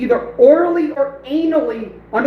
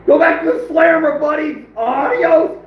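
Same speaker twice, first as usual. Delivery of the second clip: gloating taunt; 4 semitones higher than usual. Real, not acted. Taunting the banned user.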